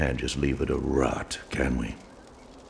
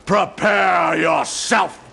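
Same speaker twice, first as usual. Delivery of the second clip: pronouncing doom; 13 semitones higher, 5 dB louder than usual. Acted. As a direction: deliver the sentence like a verdict from the pulpit. Pastor pronounces judgment.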